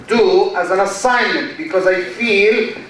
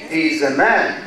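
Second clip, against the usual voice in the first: low pitch, "man" given a weighty curve; emphatic intonation on MAN; 4 semitones lower than usual. Shown as a demonstration. Teacher contrasting intonation patterns, emphatic "man". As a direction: lean on "man" as praise. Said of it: "I can say the sentence in three different patterns".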